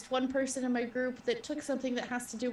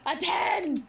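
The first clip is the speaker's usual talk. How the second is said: real burst of joy, higher and louder; excited shout; 6 semitones higher, 4 dB louder than usual. Real, not acted. Player cheers rolling a ten on the die, excited shout. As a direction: yell out the lucky roll.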